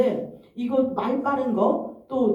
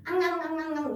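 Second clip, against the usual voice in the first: high-pitched whine; 6 semitones higher, 4 dB quieter than usual. Retold or imitated. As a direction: imitate a high, whiny "ang-ang" noise. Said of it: "목소리 톤이 굉장히 높았어요".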